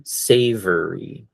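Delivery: savory, drawn out slowly; teacher modelling savory; slow model word. Shown as a demonstration. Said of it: "So that one again".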